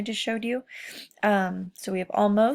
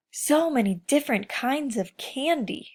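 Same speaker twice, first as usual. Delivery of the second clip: excited; 5 semitones higher, 3 dB louder than usual. Acted. Gushing about candy.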